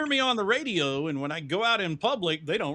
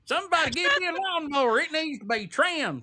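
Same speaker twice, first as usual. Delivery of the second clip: country hick voice; 11 semitones higher, 3 dB louder than usual. Pretend. Continuing hick bit.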